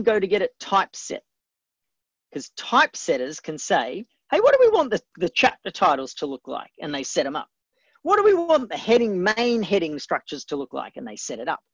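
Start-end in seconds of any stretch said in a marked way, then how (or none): 4.3-6.7 mock call across to colleagues, starting high and loud; high, loud opening that falls back to normal; imitated calling out. Acting typesetters calling out a question. 8.0-11.0 mock typesetter calling out the next question; imitated calling out.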